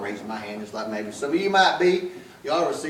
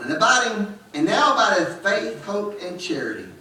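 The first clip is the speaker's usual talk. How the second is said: raised, ringing scripture recital; scripture recitation; 3 semitones higher than usual. Acted. Preacher reciting Corinthians to the congregation, raised. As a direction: proclaim the verses to the church.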